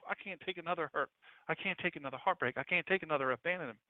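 soft, weary plea; quietly overwhelmed, acting someone at the limit; worn-out lament. A hurting believer saying they can't go on, softly weary.

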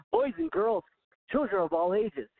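high, showy ringmaster call. Acted. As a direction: announce it like a circus ringmaster. Final sign-off, circus announcement phrase.

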